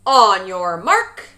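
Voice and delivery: slow, loud coach's call; bellowed. A narrator's reading. Coach bellows the start to his swim team. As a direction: draw it out across the whole pool. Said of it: "bellowed the coach".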